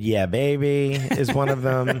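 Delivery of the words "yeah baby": put-on drawn-out "yeah, baby"; elongated yeah baby. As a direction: stretch "baby" out long.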